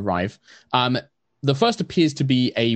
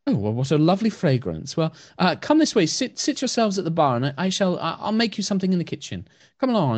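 gentle elf priestess; 7 semitones higher, faster than usual. Acted. Blind elf asking her dog to lead her to the guests.

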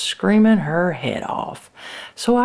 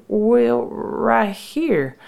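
high, hesitant little answer; defensive reply; 7 semitones higher, much slower than usual. Acted. Sister answering her impatient brother's demand, defensive. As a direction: answer uncertainly, voice lifted high.

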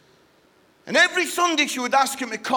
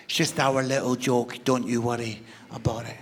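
dismissive brush-off; 11 semitones lower than usual. Retold or imitated. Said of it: "they do that thing where they go".

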